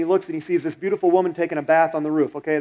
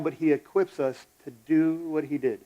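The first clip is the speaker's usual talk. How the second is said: dropping softer on the second half; softer, like a promise; soft repeat; 5 dB quieter than usual. Shown as a demonstration. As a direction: ease down gently. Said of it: "I'm gonna say that again".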